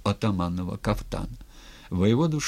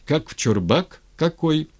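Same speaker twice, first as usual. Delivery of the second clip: higher, irritated grumbling; exasperated cursing; 7 semitones higher than usual. A narrator's reading. Cossack cursing his stuck pike, exasperated. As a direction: rise in annoyance to a high spit. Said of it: "ругались".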